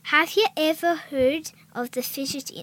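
tentative Scottish poem reading; amateur put-on Scottish; Scottish accent attempt. Shown as a demonstration. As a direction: read the rhyme with a Scottish lilt. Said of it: "say that in a Scottish accent".

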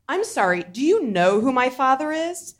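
put-on rich girl voice; entitled rich adopted girl; drunken posh sneer. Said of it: "my impression of a really rich adopted girl".

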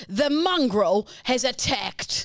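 slow, dramatic documentary voiceover; TV narrator voice. Retold or imitated. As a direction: drag it out like a cop show narrator. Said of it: "Graham Bell and he'd be like".

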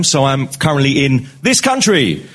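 "this country" drawn out, "this" punched; stress on this. Real, not acted. Guest stressing his country, drawing it out slow. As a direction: lean hard on "this" in "this country". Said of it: "Works every time".

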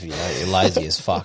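chuckling through the words; laughing teasing jab. Real, not acted. Joking about not cleaning crabs.

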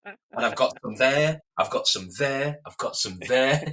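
slow, daft floppy scarecrow. Acted. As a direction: drawl it out like a straw man. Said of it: "You sound like the Scarecrow from The Wizard of Oz".

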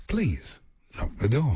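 slow, soothing toilet announcement; quite soothing. Pretend. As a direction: soothe the passenger, taking it slowly. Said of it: "this could be quite soothing".

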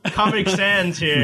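loud, slow and drawn out; hammed-up announcement. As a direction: proclaim it like a herald. Mock proclamation joke.

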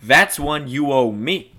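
lightly voiced old-time tough guy; a hint of a streetwise cop; grudging Floyd. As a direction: let her off, mock-grudging.

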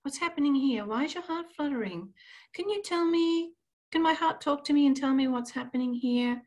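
tender inner voice asking what's wrong; gentle nurturing. Retold or imitated. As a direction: coax it gently like a worried parent. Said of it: "very nurturing with it".

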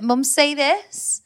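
lightly voiced child, drawn out; slow, teasing request from a son to his mum; imitating young son. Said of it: "he's like".

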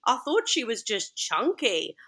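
hammed-up horrified manager voice; flustered manager. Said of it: "and he's like".

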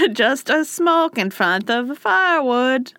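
mock foreign accent, broken English; lightly hammed-up foreign accent; fake foreign accent. Caught man excuses himself by the firewood, fake foreign accent. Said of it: "why we're giving an accent".

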